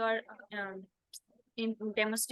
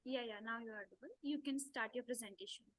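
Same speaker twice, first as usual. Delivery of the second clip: barely audible; 5 dB quieter than usual. Real, not acted. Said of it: "Ma'am, your voice is very low".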